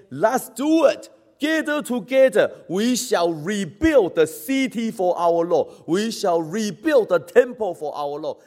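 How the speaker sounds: high opening call, settling into resolve; rally the people to rebuild; acted rousing call to work; rallying cry. Acts out returned exiles rallying together.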